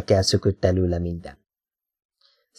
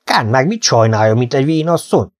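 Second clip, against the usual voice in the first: gruff snap; 3 semitones higher than usual. Acted. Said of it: "mordult rá a pákász".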